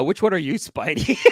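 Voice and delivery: lightly voiced imitation of Sleepy; mock quote of Sleepy. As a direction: poke at Spidey in a put-on voice. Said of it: "I like how Sleepy's".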